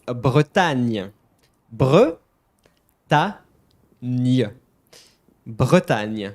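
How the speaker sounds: "Bretagne" drawn out as "bruh-TAN-yuh", loud; slow French demo. Shown as a demonstration. Teacher showing viewers the trickier name, slow syllable-by-syllable French "Bretagne". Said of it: "gonna be a bit more tricky".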